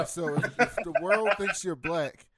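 loud, forceful insistence; emphatic. Real, not acted. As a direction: drive the point home hard. Emphatic point about race.

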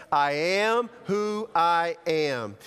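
very slow, deliberate proclamation; measured, weighty group recital; leading a recitation. Shown as a demonstration. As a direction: draw out each word for all to join. Leads congregation in reciting.

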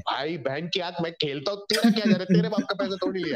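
rising into a loud Hindi rant; mock gamer fight. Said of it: "Gamers tend to fight like".

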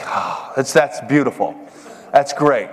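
low, sighed delight at good news; mock awe. Speaker to his friend about the late wake-up, blissful relief. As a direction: sigh it out, savouring, then a laugh.

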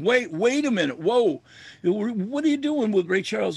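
mildly startled, stop him leaving; urgent interjection. Retold or imitated. Musician calls back the departing star, mildly urgent.

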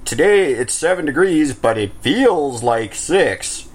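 lightly imitated weather report; slow the punchline for mock drama; a hint of weather presenter; weather forecaster. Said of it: "our weather people are like".

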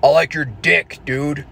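lightly voiced manly dude; mock macho guy talk. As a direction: play a dude-to-dude come-on. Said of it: "manly dudes talking like men".

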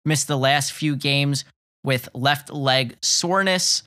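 talking through hiccups; hiccuping between words. Real, not acted. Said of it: "I can't stop hiccuping here".

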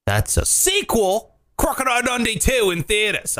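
hammed-up Australian quote; mock Australian. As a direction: parody an Aussie film trailer. Parody of Crocodile Dundee line.

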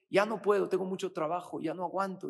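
preacher acting out a stressed worker's moan; overwhelmed complaint. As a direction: vent like you're drowning in work. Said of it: "En lugar de decir".

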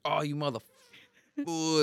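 slow, drawn-out "motherfucker"; slowly drawled playful insult; drawn-out mock insult. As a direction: stretch it out in mock outrage. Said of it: "I was like".

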